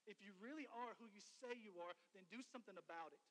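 loud, taunting challenge from a scoffing leader; preacher's mock heckling. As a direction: jeer at him, daring him to prove it. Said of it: "mocking him, saying".

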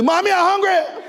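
a hint of a child asking mommy; imitating a small child. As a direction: play the hungry toddler, lightly. Child voiced in parent story.

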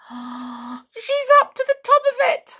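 high, tiny squeak of a toy mouse; squeaky mouse voice. A narrator's reading. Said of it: "squeaked the Clockwork Mouse".

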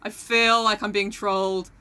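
hesitant put-on American accent. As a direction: mimic a wary American, dragging the words a little. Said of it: "so many Americans like".

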